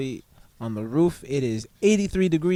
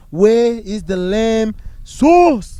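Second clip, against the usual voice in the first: British chef shout; 8 semitones higher, 12 dB louder, much slower than usual. Retold or imitated. Imitating Gordon Ramsay yelling.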